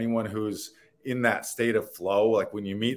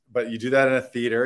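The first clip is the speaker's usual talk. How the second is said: ordinary talk, nothing marked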